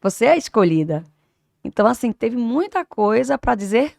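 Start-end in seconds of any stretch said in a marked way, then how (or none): 0.0-1.0 higher and much louder, cheering her on; eager call that it's her turn; excited encouragement. Retold or imitated. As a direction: hype her up like a coach. Voicing God's encouragement.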